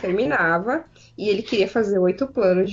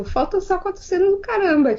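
higher, mildly mocking echo of an excuse; exasperated echo; 8 semitones higher than usual. Arguing with the crew over a delay, mock exasperation. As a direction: throw the excuse back, pitched up.

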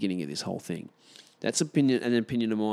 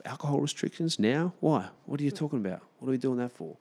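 incredulous; 5 semitones higher than usual. Real, not acted. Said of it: "incredulous questions".

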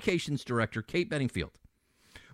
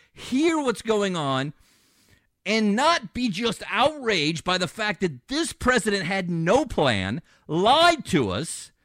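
outraged; 4 semitones higher than usual. Real, not acted. Host to listeners about the president, slow outraged questions. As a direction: drag out each question in disbelief. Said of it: "very hard for me to stay calm today".

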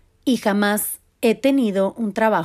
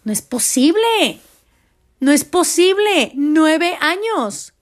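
asombro exagerado, agudo y alargado; no te lo puedes creer, estira las palabras; incredulidad actuada; 6 semitones higher, slower than usual. Retold or imitated. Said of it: "Y yo decía". (incredulidad teatral al recordar)

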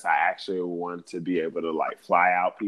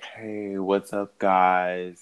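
monotone intro voice; flat, bored podcast host; bored lecturer; 4 dB louder, slower than usual. Shown as a demonstration. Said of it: "like, monotone".

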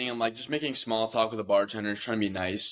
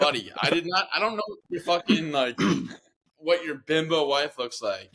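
higher, annoyed rant; exasperated; 5 semitones higher than usual. Retold or imitated. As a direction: snap back at a drunk. Exasperated reply to drunk stranger.

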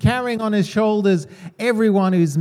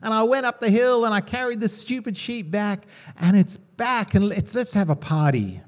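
higher, lightly voiced delighted shepherd; giddy shepherd; 4 semitones higher than usual. Shepherd gushes to his village about his lost sheep, mock giddy. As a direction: play the gushing shepherd, a touch hammed-up. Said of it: "and he's like".

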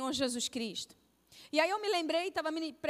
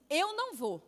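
flat refusal. Retold or imitated. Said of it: "Desse jeito".

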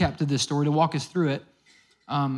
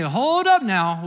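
slow, stretched-out caution; acted slow "whoa there" interjection; drawn-out halt; 2 semitones higher, 4 dB louder, much slower than usual. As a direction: stretch it out to halt someone eager. Jesus halting eager would-be followers.

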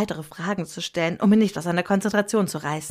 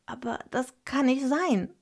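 startled; 7 semitones higher than usual. A narrator's reading. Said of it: "sagte ich erschrocken".

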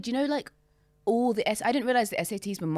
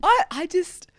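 laughing; 12 semitones higher, 7 dB louder, slower than usual. Real, not acted. Laughing while starting.

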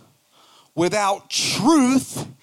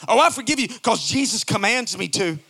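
grudging forgiveness. Retold or imitated. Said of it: "I've heard people say this".

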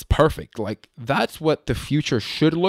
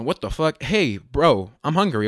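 put-on LA accent; 3 semitones higher than usual. Talking like his group of friends, LA accent. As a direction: slip into an LA accent. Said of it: "the L A accent is very prevalent".

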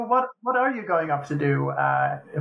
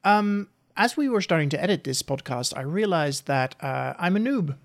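distant, echoey room sound; echoey mic. Real, not acted. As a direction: voice far from the microphone. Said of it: "I sound a little bit echoey".

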